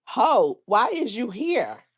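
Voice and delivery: badly faked accent, hit the first word hard; Jocelyn voice. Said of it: "in my Jocelyn voice".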